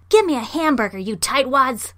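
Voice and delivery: loud, high, indignant demand; enraged shout. A narrator's reading. Monkey demands food from the men, enraged shout. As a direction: keep raging, high and loud. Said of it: "shouted the monkey in a rage".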